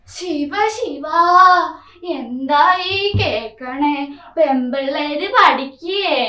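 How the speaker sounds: slow, sing-song scandalised granny; shocked old grandmother. Acted. Grandmother scandalised that a girl wants study, slow drawl. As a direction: drag it out like a shocked elder.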